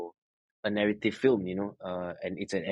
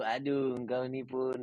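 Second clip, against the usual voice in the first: chill Malaysian sigh; 3 semitones higher, 5 dB quieter than usual. Acted. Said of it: "lepak, chill, macam tu".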